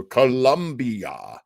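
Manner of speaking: put-on slow, drawn-out old radio announcer read; a light mock of a vintage radio sign-off; imitating the announcer. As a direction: stretch the word out like a 1940s network announcer. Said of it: "I do love that announcer, Joe".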